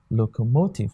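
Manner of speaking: locomotive with the weight on MO; stress on third syllable. Shown as a demonstration. Teacher repeating locomotive for students, stress on the third syllable MO. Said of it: "the stress is on the third syllable".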